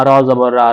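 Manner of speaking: "রা" with a thick, rounded r; heavy ra. Shown as a demonstration. Teacher shows ra with zabar, thickened "রা". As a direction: make the r of "রা" full and heavy. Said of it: "রটা মোটা করে পড়তে হয়".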